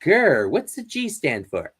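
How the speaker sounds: usual speaking voice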